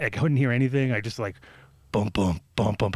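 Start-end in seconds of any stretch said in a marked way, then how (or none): 1.9-2.9 low thumping heartbeat noises; imitated heartbeat. Storyteller recreating his nervous moment on stage, imitated heartbeat. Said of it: "heartbeat, you know what I mean".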